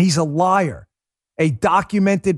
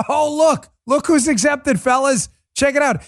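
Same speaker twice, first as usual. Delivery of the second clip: sarcastic excitement; 11 semitones higher than usual. Real, not acted. Mock discovery of exemptions.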